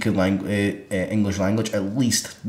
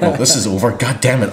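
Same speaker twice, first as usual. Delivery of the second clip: angry outburst; 4 dB louder than usual. Retold or imitated. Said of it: "you're gonna raise your voice".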